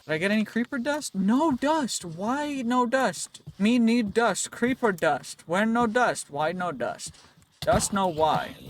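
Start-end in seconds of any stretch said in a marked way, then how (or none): 1.1-8.6 lightly voiced caveman, louder and higher at first; mock caveman complaint, easing off at the end; caveman talk. Gamer whining about missing creeper dust, lightly played caveman.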